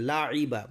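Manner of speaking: লাইবা with a pharyngeal ayn before "ee"; clear ayn sound. Shown as a demonstration. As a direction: bring out the throaty ayn in লাইবা. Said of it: "আইন বের করবেন".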